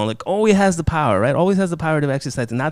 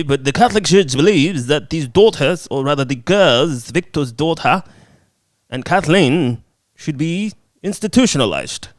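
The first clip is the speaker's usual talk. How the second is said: imitating priest; 2 semitones higher, 4 dB louder than usual. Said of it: "is like".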